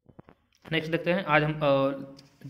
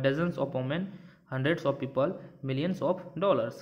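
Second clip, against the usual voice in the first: slow dictation; much slower than usual. Shown as a demonstration. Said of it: "teacher reads examples".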